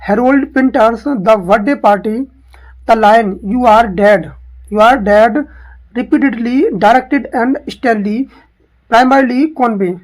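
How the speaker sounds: slow, deliberate reading of the question. Shown as a demonstration. Teacher reads the exam question aloud slowly. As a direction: spell out each title for the students.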